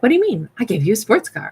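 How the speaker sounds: mock offended disbelief, pitch jumping up; imitating a giver who feels affronted; indignant giver. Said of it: "But they're like".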